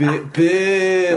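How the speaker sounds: high, loud "Boo" with a fronted vowel; mock Scottish booing; Scottish double O. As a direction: hold "boo" long and high, vowel squeezed forward. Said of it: "you can't do a double O".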